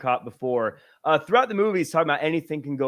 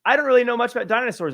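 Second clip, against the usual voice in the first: put-on bored kid; 7 semitones higher, 4 dB louder, much faster than usual. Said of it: "the other kid is like".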